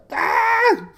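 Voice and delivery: high laughing squeal. Real, not acted. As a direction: laugh through the word. Laughing about Plinko memories.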